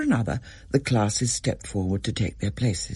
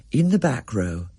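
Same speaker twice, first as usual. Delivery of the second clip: ordinary delivery, nothing marked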